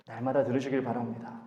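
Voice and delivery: ordinary delivery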